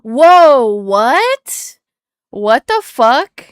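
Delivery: loud, stunned whoa; loud disbelieving what the fuck; shocked outburst. Real, not acted. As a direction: blurt it out in real disbelief. Shocked at the map.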